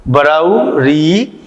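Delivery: slow vowel recitation; reciting vowels. Shown as a demonstration. Teacher counts out the eleven vowels, slow recitation. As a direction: list each vowel slowly for the class. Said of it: "कौन कौन से?".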